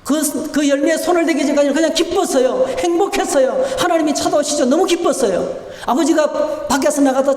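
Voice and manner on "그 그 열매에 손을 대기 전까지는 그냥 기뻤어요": ordinary delivery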